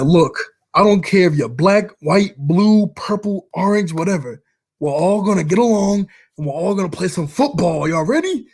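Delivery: rally the team; imitating the coach rallying players; coach pep talk.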